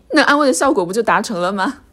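normal talking voice

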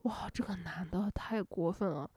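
hushed whisper of disapproval; soft, hushed outrage; whispered aside. Retold or imitated. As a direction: whisper it as if the ex might overhear. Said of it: "周大姐她就说".

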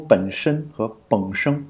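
本身 and 本声 said slowly with the same final nasal; merged nasals demo. Shown as a demonstration. Showing a listener that 本身 and 本声 sound alike to her hometown. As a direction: say 本身 and 本声 so they sound identical. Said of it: "他们觉得".

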